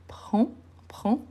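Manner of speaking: "prends" ending on the nasal vowel; silent D S. Shown as a demonstration. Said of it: "je ne prononce pas le deux S". (« prends » sans prononcer le d ni le s)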